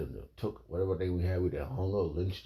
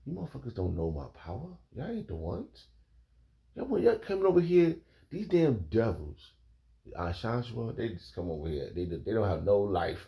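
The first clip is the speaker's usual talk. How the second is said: retold anger; 4 semitones higher than usual. Telling viewers how he got angry yesterday, ranting. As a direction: let the anger build as you repeat the rant. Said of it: "I just got angry".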